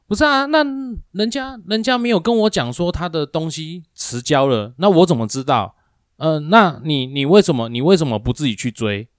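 high, indignant excuse from the coworker; defensive coworker. Retold or imitated. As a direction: whine that it's not his fault. Coworker shifting blame, acted. (模仿同事推卸责任，语调高)

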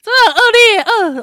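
cracking up while scolding; laughing outrage. Real, not acted. Host laughing at cohost's childhood prank, appalled.

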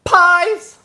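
loud, high-pitched call; page-turning cue. Pretend. Host marks a page turn, loud high call. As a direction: belt out the cue word. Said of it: "page turning sound, obviously gonna be pie".

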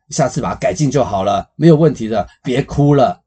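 lecturing dad. Retold or imitated. Father lecturing his crying child, booming and high. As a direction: preach a life lesson like a know-it-all dad. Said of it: "结果你爸呢 的反应是什么呢".

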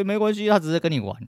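high, sing-song mock of a dismissive teacher, "没关系" lifted. Mocking a teacher's excuse. (高音调嘲讽老师敷衍的语气)

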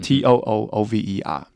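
each letter said separately; spelling it out. Shown as a demonstration. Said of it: "我们可能会说，呃，too over".

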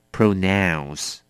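"pronounce" with a clear r after the p; 清楚念出pronounce; careful pronounce. Shown as a demonstration. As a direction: spell out the r in "pronounce". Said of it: "它的L你一定要念对，要念成".

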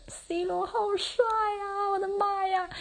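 high, slow swooning cry over a handsome player; swooning fangirl. Real, not acted. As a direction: melt into a lovestruck wail. (对着电视里的C罗花痴地拖长声音高声尖叫)

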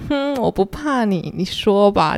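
flirty. Retold or imitated. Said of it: "我觉得这句话有一点小调情嘛".

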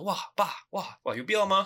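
high, loud incredulous whine; exasperated protest. Retold or imitated. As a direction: protest like a fed-up kid. Kid protesting to dad. (对爸爸不服气地抗议)

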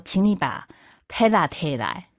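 pela said in Taiwanese; Taiwanese word. Retold or imitated. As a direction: Taiwanese pela, slow and rising. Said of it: "有人告诉我".

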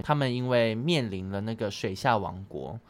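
talking with a mouthful of water; water held in mouth. Real, not acted. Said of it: "我刚刚就是在那个含着水讲的话".

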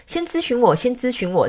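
high-pitched, pleading pet voice; lightly voiced dog begging to go first; eager little dog. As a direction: pipe up high like an impatient puppy.

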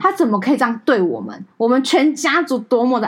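a touch of tearful indignation on 他; retold hurt outcry. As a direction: retell the protest with some hurt. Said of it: "然后我就哭出来". (带点委屈的质问，重读"他")

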